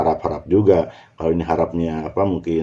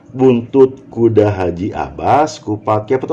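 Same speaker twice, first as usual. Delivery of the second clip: "Buntut kuda haji abas" as one slow unit; pause after abas; slower than usual. Shown as a demonstration. Teacher finding the right grouping, pause after "abas". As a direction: join four words up to "abas", break, then "kupat, kepot". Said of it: "yang empat ini yang lekat ini".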